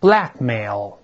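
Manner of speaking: Blackmail, BLACK stressed and MAIL falling away low; stress on first syllable. Shown as a demonstration. Teacher models Blackmail for reading aloud, first-syllable stress. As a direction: hit "Black" in Blackmail, let "mail" drop. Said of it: "重音在第一个音节".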